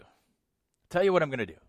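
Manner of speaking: a hint of a pushy salesman pitch; slick used car salesman. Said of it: "he sounds like a used car salesman".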